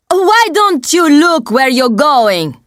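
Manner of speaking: indignant star telling off a fan; angry shout. A narrator's reading. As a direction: snap at someone who bumped into you. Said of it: "Fabio shouts at me".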